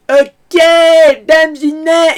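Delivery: high, loud farce yell, held back a little; hammy yell, gently done; toned-down Jacquouille. Retold or imitated. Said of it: "là, je le fais gentiment".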